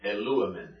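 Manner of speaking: "Eluamen" stressed on the antepenult, lu; "Eluamen" accented on its third-from-last syllable; stress shifted back. Shown as a demonstration. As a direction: lean on the "lu" in "Eluamen". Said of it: "look at the difference".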